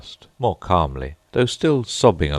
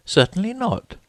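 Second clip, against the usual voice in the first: indignantly. A narrator's reading. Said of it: "said Alice indignantly".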